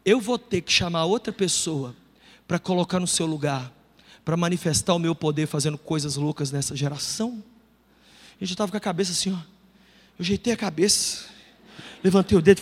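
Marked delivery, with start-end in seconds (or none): 0.1-7.4 voice of Jesus. Retold or imitated. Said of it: "sabe o que que Jesus falou comigo".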